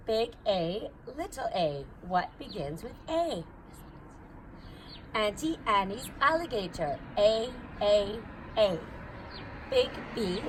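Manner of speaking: sing-song picture-book read-aloud; reading to a child. Acted. Reading an alphabet book aloud to her baby, sing-song. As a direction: read it bouncy and playful for a little one. Reads Dr. Seuss ABC to child.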